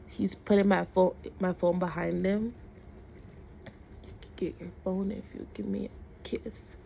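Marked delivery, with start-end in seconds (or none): 4.0-6.8 whispery, soft imitation of a come-on; hushed, creepy retold advance; retold creepy proposition. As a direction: half-whisper the bargain. Retold man repeats creepy proposition.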